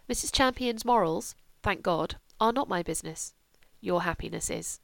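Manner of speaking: a hint of a dry, aristocratic mother; lightly voiced composed mother. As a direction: state it quietly and firmly. Mother's measured verdict.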